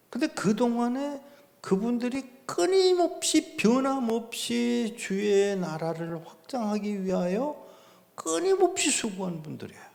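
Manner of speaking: high, lifted preaching voice, slowing on 변함없이; soaring praise. Acted. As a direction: exalt the faithful helpers. Preacher praises faithful helpers.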